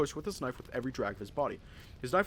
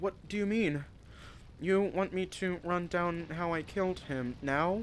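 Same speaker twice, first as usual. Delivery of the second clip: mechanical robot voice, pitched higher; 5 semitones higher than usual. Reading a story aloud, voicing a character who answers: robotic voice. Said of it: "I'm gonna try to do it as robotic as possible".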